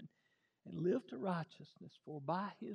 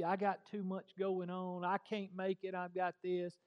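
mocking excuses; 3 semitones higher, 4 dB louder than usual. Preacher mocks casual churchgoers.

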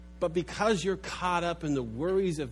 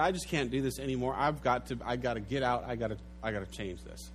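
desperate resolve; 4 semitones lower, 5 dB quieter, faster than usual. Acted. Widow voiced deciding to change.

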